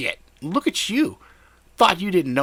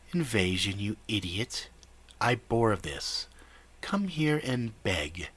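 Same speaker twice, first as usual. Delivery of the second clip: nasal villain voice; 4 dB quieter than usual. Acted.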